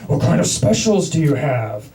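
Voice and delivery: a lightly laughing Batman rasp. Retold or imitated. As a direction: growl back as Batman, half laughing. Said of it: "doing the Batman voice right back".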